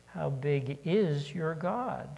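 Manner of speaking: slow, weighted "is" in "How big is your God?"; slow down and lean on "is"; stress on is. Shown as a demonstration. Preacher slowly stresses "is" for the congregation. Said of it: "Think about emphasis on the words here".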